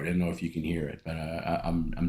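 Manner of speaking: hoarse, with a frog in the throat. Real, not acted. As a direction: talk through a frog in the throat. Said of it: "a little frog in my throat".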